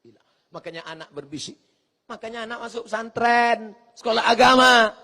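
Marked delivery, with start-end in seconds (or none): 0.0-0.3 very soft la ilaha; tongue-only zikir; whispered zikir. Shown as a demonstration. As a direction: murmur it on the tongue. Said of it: "Lidah saja".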